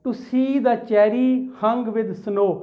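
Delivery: very slow, deliberate reading of the poem line; slow classroom recitation of the line. Shown as a demonstration. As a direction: read it word by word. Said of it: "next example है".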